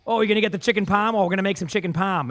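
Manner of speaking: quick mock Boston parents; Boston accent. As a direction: rattle it off like Boston mom and dad. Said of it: "my mom and my dad would call it chicken palm".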